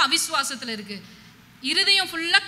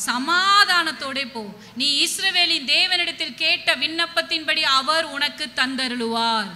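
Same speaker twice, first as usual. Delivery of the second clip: slow, stretched-out priestly pronouncement; solemn blessing; slower than usual. Acted. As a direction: pronounce a blessing slowly over her. Priest Eli's blessing quoted to Hannah. (நிதானமாக, இழுத்துச் சொல்லும் ஆசீர்வாதம்)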